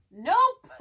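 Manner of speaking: loud high laughing nope. Retold or imitated. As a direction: blurt it through a laugh. Laughing reaction to ghost radio.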